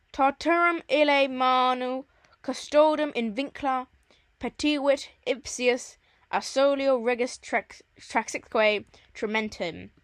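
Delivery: measured, firmly projected verse reading; Latin recitation. Acted. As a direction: read the Latin out deliberately. Reads Latin verse aloud.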